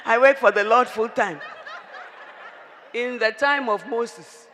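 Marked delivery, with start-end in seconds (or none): 0.1-1.4 laughing mockery. Mocking a woman's excuse.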